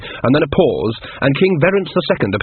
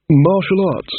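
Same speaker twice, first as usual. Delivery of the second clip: higher-pitched puzzled read of MARTIAL ARTS; baffled reading; 6 semitones higher, slower than usual. Acted. King reads the title page, baffled.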